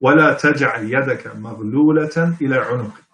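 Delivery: measured Arabic scripture recitation; slow Quran reading. Shown as a demonstration. Lecturer reads a verse so listeners can visualize, slow recitation. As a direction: recite the verse slowly and deliberately. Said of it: "I'm gonna read it slowly".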